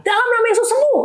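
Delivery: very high-pitched declaration; retold prayer shout. Wife repeating healing prayer in the ER, retold high-pitched shout. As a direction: imitate crying out a command in prayer. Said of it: "Teriak-teriak".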